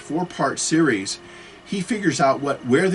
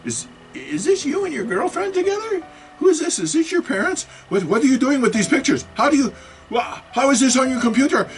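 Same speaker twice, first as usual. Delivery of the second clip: put-on old-person voice; 13 semitones higher, 5 dB louder than usual. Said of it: "'cause he's downloaded their pictures".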